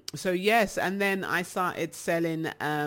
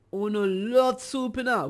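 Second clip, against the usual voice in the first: Jamaican patois; 5 semitones higher, 4 dB louder than usual. Real, not acted. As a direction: slip into Jamaican patois for emphasis.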